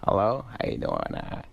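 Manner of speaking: understated mumbly impression, rising at the end; Adam Sandler. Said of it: "He's like".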